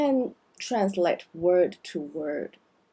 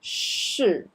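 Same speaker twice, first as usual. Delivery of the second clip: 是 said heavily; 是 weighted and heavy. Shown as a demonstration. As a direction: lean hard on 是. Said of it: "uh, heavily".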